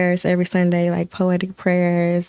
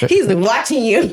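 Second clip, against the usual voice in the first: put-on laughing child voice; 3 semitones higher, 4 dB louder than usual.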